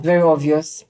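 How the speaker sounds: talking while chewing gum; words round a wad of gum. Real, not acted. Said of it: "Can you stop chewing gum".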